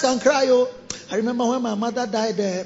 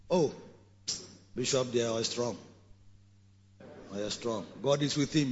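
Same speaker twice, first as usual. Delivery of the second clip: mock quote; 9 semitones lower, 11 dB quieter than usual. Mocking what members say.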